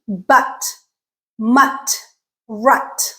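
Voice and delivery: "but, mut, rut" each with a stressed uh. Shown as a demonstration. Teacher modelling the stressed uh sound, careful demonstration. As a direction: separate model words "but, mut, rut", short central uh vowel. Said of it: "This is the stressed uh sound".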